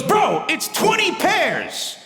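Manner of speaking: high, slow disgusted report; mock disgusted friend; appalled buddy. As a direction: spell out the horror slowly. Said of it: "He goes".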